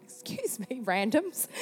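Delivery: hushed, hesitant mock greeting; timid approach. Woman awkwardly interrupting strangers in McDonald's, timid. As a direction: sidle up softly to strangers.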